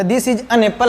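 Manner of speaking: an said as a short "un"; normal article an. Shown as a demonstration. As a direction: run a short "un" into apple. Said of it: "कि इसको बोलिए".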